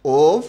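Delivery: ওভ said alone, loud and falling; a loud, clear ওভ; stressed answer. Shown as a demonstration. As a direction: punch ওভ as the answer. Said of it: "হয় বফলার উচ্চারণ কী হবে?".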